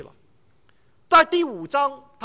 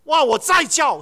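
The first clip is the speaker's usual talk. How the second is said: calling out louder; father calling son again, louder; 3 semitones higher, 6 dB louder than usual. Retold or imitated. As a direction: raise voice to reach upstairs. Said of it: "声音再大一点".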